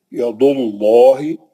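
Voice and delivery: ید اللہ recited very slowly, lam of اللہ heavy; slow recitation, heavy lam; heavy lam demo. Shown as a demonstration. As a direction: draw out ید اللہ with a full lam. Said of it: "تو کیسا پڑے گا؟".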